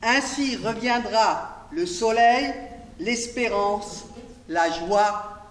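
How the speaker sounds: projected, measured poem reading; poetry recitation. Acted. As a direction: declaim the poem line by line, lifting the voice. Reads own poem on Django.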